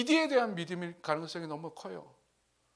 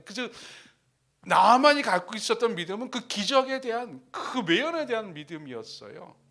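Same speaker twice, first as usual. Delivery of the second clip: raised, emphatic sermon delivery; forceful preaching; 6 semitones higher, 6 dB louder than usual. Real, not acted. Preacher expands on the servant's story, preaching forcefully. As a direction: press the point home to the congregation.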